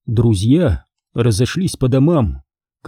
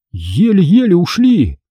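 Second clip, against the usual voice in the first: heavy sigh; 6 semitones higher, slower than usual. A narrator's reading. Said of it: "тяжело вздохнул Майкл".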